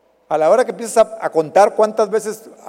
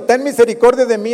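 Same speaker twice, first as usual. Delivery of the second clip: pleading cry; 4 semitones higher, 5 dB louder, faster than usual. Retold or imitated. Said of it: "si yo le estoy gritando".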